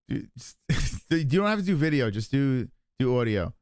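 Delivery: giggly and high, loosely spoken; stoned. Real, not acted. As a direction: talk like you're really high. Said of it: "I'm high as fuck".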